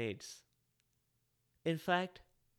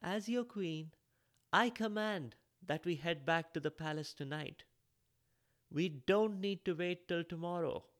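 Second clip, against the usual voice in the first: evil queen; 3 semitones higher than usual. Acted. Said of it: "Mauni announced to the staff".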